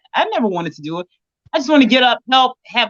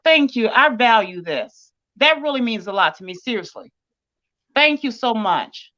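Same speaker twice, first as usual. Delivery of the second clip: choked up; 2 semitones lower than usual. Real, not acted. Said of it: "Now I'm just about to cry".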